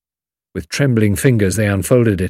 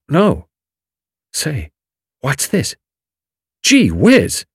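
excited; 3 semitones higher than usual. A narrator's reading. Julius reaches in, finds it.

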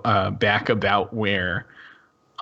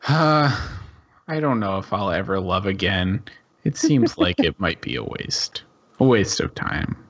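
sighing gloom; 2 semitones lower than usual. Acted. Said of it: "he sort of sighs and looks aside and says".

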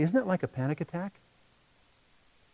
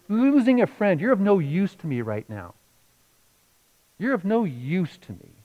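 much louder, higher cry of regret; anguished cry; 5 semitones higher, 5 dB louder than usual. Retold or imitated. Ashamed brother cries out to the Lord, loud and higher.

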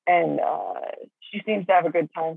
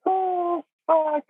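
high laugh-cry; breaking up with laughter; real laughing fit; 11 semitones higher than usual. Real, not acted. Laughing fit after joke.

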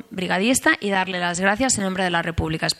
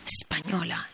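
whispered echo; 6 dB quieter than usual. Retold or imitated. Old man repeats her answer.

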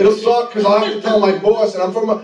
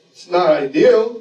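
calm inner acceptance; 2 semitones lower, slower than usual. Retold or imitated. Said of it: "in my head I say".

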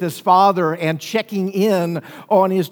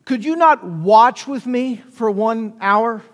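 a slower, lightly voiced plea from Jesus, a bit higher; Jesus pleading; 4 semitones higher, 3 dB louder, slower than usual. Preacher voicing Jesus asking the sleeping disciples, slow and pleading. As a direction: ask it slowly like a disappointed master. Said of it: "And then he says".

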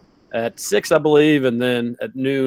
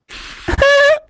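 imitated quick laugh. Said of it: "ringtone of intern Jacob's little laugh".

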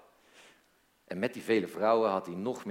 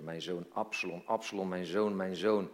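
restrained grieving father, low at first; understated, subdued cry of grief; muted mock cry; 3 semitones lower than usual. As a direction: lament for a son without raising the voice.

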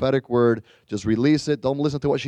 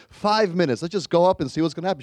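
put-on higher, lightly childlike coaxing; little kid pleading; 6 semitones higher than usual. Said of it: "I was acting like a little kid".

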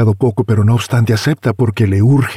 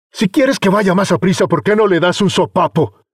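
malicious; 9 semitones higher than usual. Acted.

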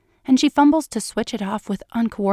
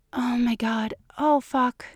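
rising to a high keen; 4 semitones higher than usual. Acted. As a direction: let it climb into a cry. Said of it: "she keens".

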